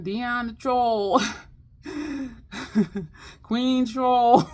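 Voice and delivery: slow, loud cheering of a nickname; fans cheering. Retold or imitated. Fans crowning the vlogger, loud and slow. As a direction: proclaim it like an adoring fan. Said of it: "people started saying".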